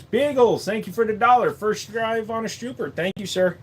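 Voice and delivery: lightly hammed comic accent; Asian accent. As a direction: keep the mock accent going with thanks. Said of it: "that accent".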